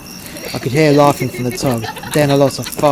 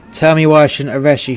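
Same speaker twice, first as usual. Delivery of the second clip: put-on Italian accent; 2 semitones higher, 6 dB louder than usual. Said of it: "he grunted in his thick accent".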